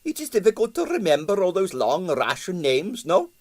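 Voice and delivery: hopeful impresario. A narrator's reading. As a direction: plead with a hopeful lilt. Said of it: "he added hopefully".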